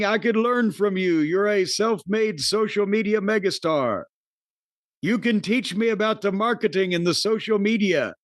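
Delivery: light Austrian-German accent imitating Gunther; a hint of Gunther's Austrian-German accent, mock-sincere. Podcaster quoting Gunther's praise to Logan Paul, light Austrian accent. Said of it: "you like my Gunther accent".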